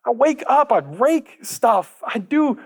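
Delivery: put-on high, slow whining older son; whiny complaint. Older son complaining to his dad, high and whiny. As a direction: whine it up high, dragging each chore.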